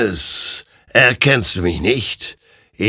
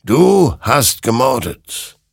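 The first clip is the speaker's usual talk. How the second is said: slow, raised, loud verdict; accusing; 6 semitones higher, 5 dB louder, slower than usual. A narrator's reading. Creature passes judgement on Hector, slow accusation. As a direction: pronounce the guilt with weight.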